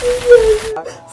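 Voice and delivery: exaggerated high, loud wail; mock bawling. Daughter breaking down on the phone to mom, mock bawling. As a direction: imitate bursting into tears, drawn out and squealing. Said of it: "I just immediately bust out crying".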